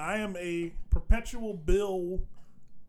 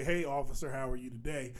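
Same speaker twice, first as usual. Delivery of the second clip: polite greeting; 6 semitones lower, 9 dB quieter than usual. Retold or imitated. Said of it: "I do say".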